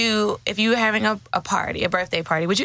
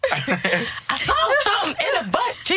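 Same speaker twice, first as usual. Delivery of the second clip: man voice; 9 semitones higher than usual. Retold or imitated. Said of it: "This is how he was talking".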